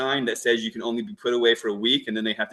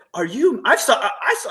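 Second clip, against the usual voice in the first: mock, high-pitched, excited stammer, tripping over the words; 11 semitones higher, 4 dB louder than usual. Retelling an old woman approaching outside a grocery store: imitating someone excited. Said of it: "so excited to talk to me".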